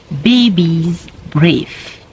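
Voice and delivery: put-on English phrase baby's breath in a French accent, unhurried; French speaker carefully pronouncing English baby's breath. Shown as a demonstration. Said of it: "mon accent anglais".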